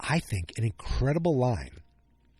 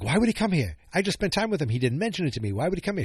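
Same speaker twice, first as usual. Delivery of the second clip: upset Andor; 7 semitones higher, faster than usual. Retold or imitated. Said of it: "And he's like".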